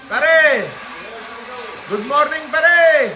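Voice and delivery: loud, high hailing call. Real, not acted. Greeting a pare in the morning, calling out. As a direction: hail a friend from a way off.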